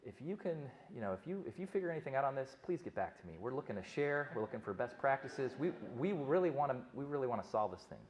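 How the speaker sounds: a friendly Southern nurse's drawl, sweet and eager. Retold or imitated. Nurse from Tennessee offering to share, in a light Southern drawl. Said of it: "in kind of a southern drawl".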